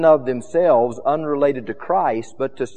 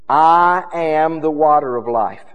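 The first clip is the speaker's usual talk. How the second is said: Jesus's claims; 5 dB louder than usual. Acted. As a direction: proclaim it, stretching the first two words. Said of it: "let me give you some of the claims".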